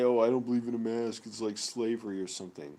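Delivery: quick, sneering quote of anti-maskers; mocking voice. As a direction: toss it off fast in a put-on scornful voice. Mocking anti-mask people's excuse.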